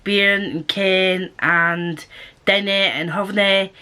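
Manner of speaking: "bearn", "ken", "dinna", "havna" in a Scottish accent; Scottish dialect words. Shown as a demonstration. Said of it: "they say things like".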